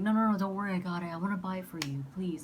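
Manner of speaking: retold insistence, loud at the start; mildly pushy pleading; persistent insisting. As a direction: lightly imitate a date who won't take no. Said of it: "he was very persistent on it".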